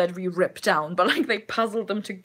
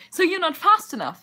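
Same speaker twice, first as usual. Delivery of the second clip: goblin voice; 10 semitones higher, 5 dB louder than usual. Retold or imitated. Goblin mishearing Faust, retold.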